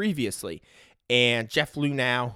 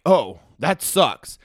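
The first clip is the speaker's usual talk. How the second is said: deadpan coach; 6 dB louder, much slower than usual. Retold or imitated. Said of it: "And the coach is like".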